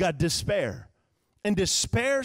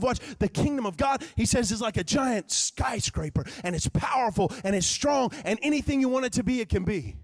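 raised, emphatic preacher voice; preaching build-up; 5 semitones higher than usual. Real, not acted. Preacher hyping the kingdom as a skyscraper, preaching build-up. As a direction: build it up grandly, point by point.

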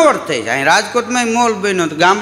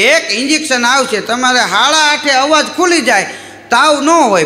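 confident doctor; 5 semitones higher than usual. Retold or imitated. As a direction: promise the cure with gusto. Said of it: "મને કે". (દર્દીને ખાતરી આપતો doctor, ઊંચા સાદે)

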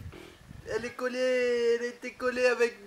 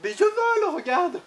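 playful buzzing bee, higher; 6 semitones higher, 5 dB louder than usual. Pretend. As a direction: pretend to fly like a bee. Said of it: "Je fais l'abeille".

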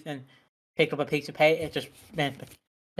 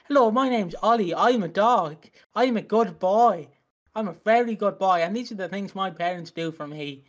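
dog voice; 3 semitones higher than usual. Retold or imitated. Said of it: "robot voices for the dogs".

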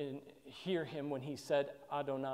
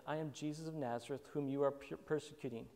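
gentle, drawing in; 5 dB quieter than usual. Retold or imitated. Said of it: "he's trying to draw people in".

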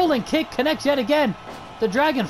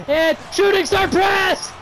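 excited; 6 semitones higher, slower than usual. Real, not acted. Commentator calls the finisher.

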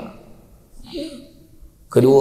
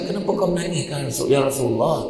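wife asking puzzled; 7 semitones higher than usual. Retold or imitated.

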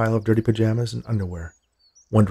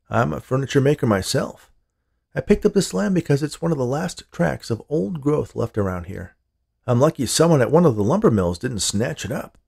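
lightly voiced furniture maker, lilting and higher; affable stranger, enthusiastic; 4 semitones higher than usual. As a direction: chat keenly about the land as the stranger. Man chats about his trade.

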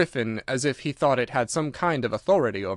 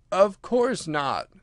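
Mock Turtle voice; 6 semitones higher, much slower than usual.

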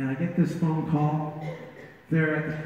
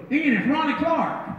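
put-on old friend voice; 10 semitones higher than usual.

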